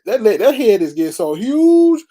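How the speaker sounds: mocking him through laughter; laughing. Real, not acted. Mocking the pastor's head to viewers, laughing. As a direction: laugh at how huge his head is.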